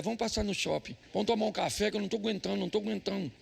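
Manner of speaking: soft, rapid, rattled confession; retold nervous agitation. Husband telling his wife he needs a coffee, mildly nervous. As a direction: hurry through it under your breath, mildly overwrought. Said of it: "Eu tava tão nervoso".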